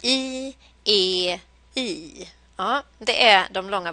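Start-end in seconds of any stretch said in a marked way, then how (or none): 0.0-2.3 vowel melody I E I. Shown as a demonstration. Teacher showing the vowel tune of the verb group. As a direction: chant "I, E, I" stepping down in pitch. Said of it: "den här gruppen som låter så här".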